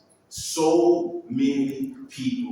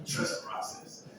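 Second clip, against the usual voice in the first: trust the process, dropped to a hushed echo; softer echo; 12 dB quieter than usual. Shown as a demonstration. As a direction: let it fall away quietly. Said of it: "Just trust the process".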